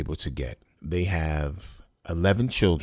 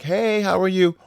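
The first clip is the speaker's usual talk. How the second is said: much higher, louder, sugary mock greeting; fake sweet cousin; 13 semitones higher, 5 dB louder than usual. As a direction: play her syrupy fake hello. Voicing estranged cousin's fake friendliness.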